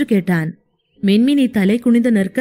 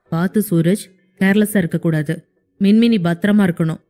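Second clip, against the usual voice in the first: lightly voiced boss giving orders; 4 semitones lower, faster than usual. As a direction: lower male voice, firm instruction. Hero voiced by narrator. (தாழ்ந்த உறுதியான கட்டளைக் குரல்)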